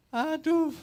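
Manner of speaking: high, laughing aduh; laughing exclamation. Real, not acted. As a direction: laugh through the word in disbelief. Laughing at the onion story.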